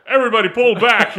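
loud, laughing mock yell of the order; a laughing, hammed-up movie shout; mock Tyson yell. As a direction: bark the order out, half laughing. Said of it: "he's like".

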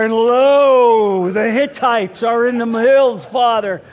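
put-on booming old-fashioned grace in a diner; father's loud prayer. Dad praying grace aloud in a diner, booming. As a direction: pray out loud like a proud preacher dad. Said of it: "my father would make this prayer".

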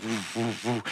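quiet "woo" sound effect; imitated plow light. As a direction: mimic a rotating warning light. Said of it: "you can hear it go like".

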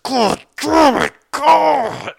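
high, strained cursing at yourself; acted cry of cramp agony; reenacted pained yelling. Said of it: "yelling at myself".

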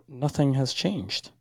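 glitchy robotic call audio; broken-up voice like a bad video call. Real, not acted. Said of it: "you sound like a robot right now".

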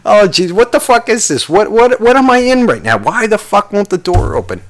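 high, mock panicky voice; hammed-up corpse panic; panicked dead man. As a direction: squeak in alarm at the stuck lid. Dead man panicking at locked coffin.

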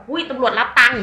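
loud, high blurted accusation; hammed-up loud gossip; mock exclamation. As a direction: blurt it out like a scandal, half joking.

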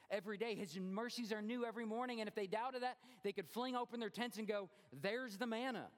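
rising, fuller preaching voice. Acted. Preacher urging the congregation to trust, building energy. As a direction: lift it and drive it home.

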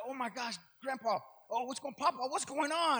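softly imitated panicky grandchild; quiet retold worry, rising at the end; mock child freak-out. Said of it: "my grandbaby just freaks out".

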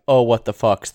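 loud exasperated yell. Retold or imitated. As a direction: shout it out in disbelief. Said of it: "the first time that I yelled".

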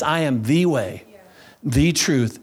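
"the" said as a full "thee"; firm "thee" before way and truth; stress on THE. Shown as a demonstration. Preacher correcting the misquote with Jesus's words, stressing THE. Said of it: "I am emphasizing the word "the".

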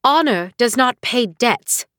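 slow curt retort from a mother; snapping. Acted. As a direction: cut the daughter off slowly and coldly. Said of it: "snapped Shahira".

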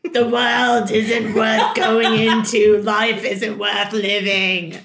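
put-on slow, loud, bleak British accent; inner British voice. Negative inner voice discouraging her, British accent. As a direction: declare doom in a drawn-out British accent. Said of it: "Mine's like".

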